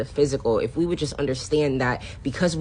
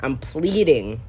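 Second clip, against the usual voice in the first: ordinary delivery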